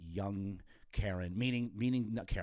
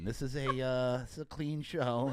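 loud, higher-pitched mock alarm; playful protest; 5 semitones higher, 7 dB louder than usual. Real, not acted. Host objects to guest's mattress joke, loud playful scolding. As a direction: cut in loudly to rein in the joke.

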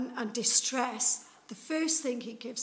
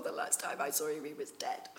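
much lower, softer, hushed disbelief; quiet dismayed murmur; doubting Thomas; 8 semitones lower, 4 dB quieter than usual. Retold or imitated. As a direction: drop low as if remembering the body. Thomas doubting, recalling death.

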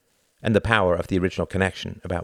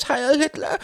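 much higher, louder pleading cry; desperate cry; 4 dB louder than usual. A narrator's reading. A wounded man begs his captors, high desperate cry. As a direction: cry out in agony. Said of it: "cried the voice".

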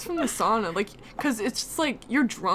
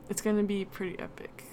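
soft unvoiced whisper; 5 dB quieter than usual. Real, not acted. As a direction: whisper it like a secret. Whispered aside.

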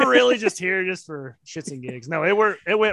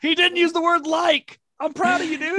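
excited teasing; 10 semitones higher than usual. Real, not acted. Teasing praise of friend.

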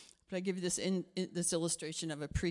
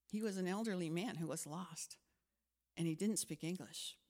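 said again softer; a quieter, sincere repetition of the realisation; softer reflective; 2 semitones lower, 4 dB quieter than usual. Shown as a demonstration. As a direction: let it sink in quietly. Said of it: "repeated softer".

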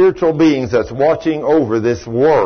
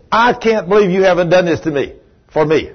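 indignant scolding, pitched higher; raised voice; 6 semitones higher, 3 dB louder than usual. Retold or imitated. Boss scolding his young employee in front of a visitor, voice raised. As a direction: act out an exasperated boss telling someone off. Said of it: "And I'm raising my voice".

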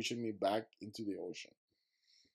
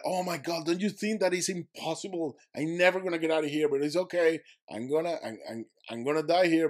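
retold despair; 6 semitones higher, 4 dB louder than usual. Retold despair talking to God.

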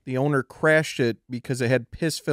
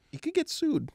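whisper; 11 semitones higher, 8 dB quieter than usual. Acted. Joking legal warning aside.

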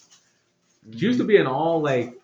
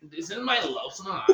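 laughing; 5 semitones higher, 4 dB quieter than usual. Pretend. Joking, laughing through quote.

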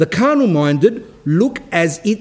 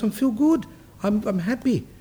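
joyful; 5 semitones higher, 5 dB quieter than usual. Retold or imitated. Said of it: "he was speaking with such joy".

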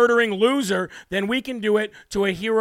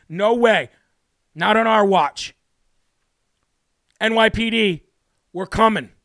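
angry rant. Real, not acted. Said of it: "Sorry, I just lost it there".

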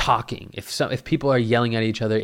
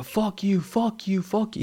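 angry; 9 semitones higher, 4 dB quieter than usual. Retold or imitated. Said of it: "He said".

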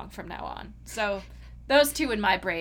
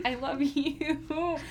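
mock swooning; 4 semitones higher, 4 dB quieter, much slower than usual. Retold fond reaction to character.

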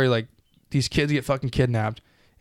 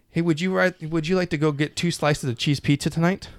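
higher, overly formal mock invitation; mock stiff politeness; 5 semitones higher than usual. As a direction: parody a stiff, unnatural offer. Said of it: "is not how humans talk to each other".

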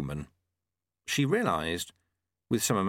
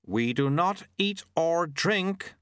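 snapped; 8 semitones higher, slower than usual. A narrator's reading. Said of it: "snapped Mister White".

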